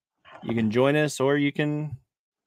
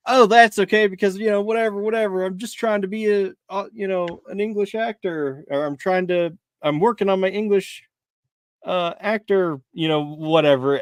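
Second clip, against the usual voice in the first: retelling his own excuse; 7 semitones higher than usual. Retold or imitated. Teen lifeguard excusing his lost Australian accent, hammed-up and high. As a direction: brush it off like a teen actor. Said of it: "And I'd be like".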